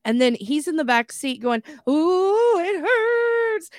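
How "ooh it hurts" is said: very high, hooting wail of pain; hammed-up howling, long held vowels; mock crying. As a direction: imitate a kid bawling in the back seat. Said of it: "He's crying".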